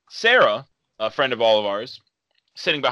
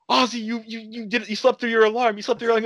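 higher mock mom scolding; a lightly voiced scolding mother; 9 semitones higher than usual. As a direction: play the exasperated mom, higher.

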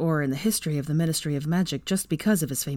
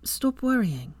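chiding; 6 semitones higher, slower than usual. A narrator's reading. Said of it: "she chided".

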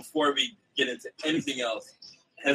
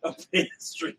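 whispered joke; 5 semitones higher, 7 dB quieter, slower than usual. Real, not acted.

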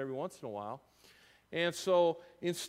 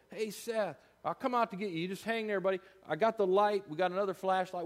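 put-on higher, kind reassurance to a lost boy; reassuring call; 4 semitones higher than usual. Pastor imagining calling to lost Seth, higher and reassuring. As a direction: promise him you're coming. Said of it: "What if I would have said".

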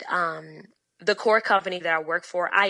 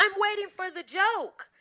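pointed deadpan repeat; 11 semitones higher than usual. Retold or imitated. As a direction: lean on it, sarcastic and cold. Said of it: "I said".

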